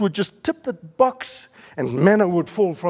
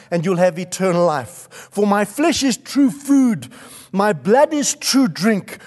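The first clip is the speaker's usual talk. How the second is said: impassioned, louder preacher's delivery; full-force preaching; 2 semitones higher, 3 dB louder than usual. Real, not acted. Preacher proclaiming Jesus as bread of God, full-force preaching. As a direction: proclaim it emphatically to the congregation.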